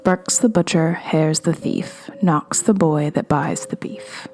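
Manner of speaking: amateur Scottish accent, slow measured rhyme; attempted Scottish accent. Shown as a demonstration. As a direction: recite it slowly, trying a Scottish accent. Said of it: "I don't have a Scottish accent".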